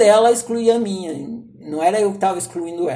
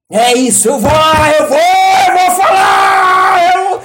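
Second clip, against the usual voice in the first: much higher, louder, slow battle cry; fired-up shout; 9 semitones higher, 9 dB louder, slower than usual. Retold or imitated. To himself, finally resolved to tell his mother: slow rousing shout.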